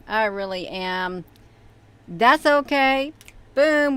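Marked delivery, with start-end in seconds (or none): 2.1-3.9 cheery. Real, not acted. Fixed the screen, cheering.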